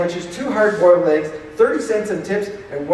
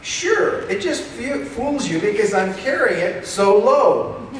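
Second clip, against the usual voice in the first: high-pitched protest; 4 semitones higher than usual. Acted. Defending his chest.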